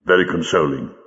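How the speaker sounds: low, glum grumble; gloomy. Acted. Jago answers Lightfoot's quotation, gloomy. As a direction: answer with dour, unconvinced gloom. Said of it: "said Jago gloomily".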